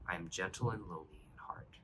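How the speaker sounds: hushed, as if sharing something precious; reverent whisper. Acted. Preacher quotes Jesus' words to the congregation, whispered.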